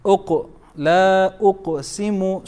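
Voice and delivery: long لا, then a light bounced q in أقسم; minor qalqala. Shown as a demonstration. Teacher asking minor or major, light qaf echo in أقسم. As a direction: isolate أق with a small echo, then chant أقسم. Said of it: "It's a minor".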